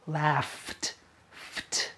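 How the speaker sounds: laughed with soft ft; laughed, ft breathed; ft ending. Shown as a demonstration. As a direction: ease out the ft. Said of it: "so the past is pronounced laughed".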